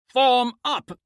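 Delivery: high, loud commanding bellow. A narrator's reading. Commander rallying his soldiers, bellowing. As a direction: bark the order to the troops. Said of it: "I bellow".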